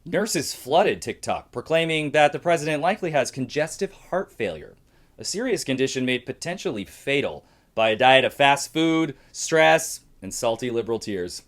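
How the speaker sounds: measured satirical news read; comedy news anchor. Acted. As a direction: present jokes as news headlines. Opens a comedy news segment.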